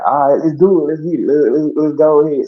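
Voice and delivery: light hammed-up let's-go energy; hyped agreement. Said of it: "So I was just like".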